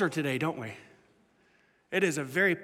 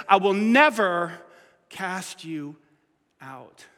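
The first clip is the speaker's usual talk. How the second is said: gentle reassurance; 2 semitones lower, much slower than usual. Retold or imitated. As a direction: fade to a hush on out. Gentle Jesus reply.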